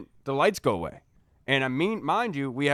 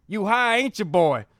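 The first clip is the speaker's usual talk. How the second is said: put-on higher, louder old Southern cop drawl; 6 semitones higher, 5 dB louder than usual. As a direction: lean in and accuse the boy. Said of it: "an older guy".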